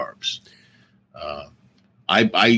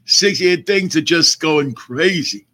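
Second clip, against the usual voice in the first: put-on slow, creaky old-timer voice; old man voice; 5 semitones higher than usual. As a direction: talk like a worn-out old man, slowly. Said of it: "I did the old man voice".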